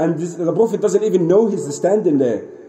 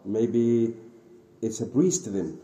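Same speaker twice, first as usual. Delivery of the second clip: low, quiet musing to oneself; hushed, halting realisation; subdued shock; 6 semitones lower, 8 dB quieter, slower than usual. Retold or imitated. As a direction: reason it out softly, taken aback. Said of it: "he was shocked, like".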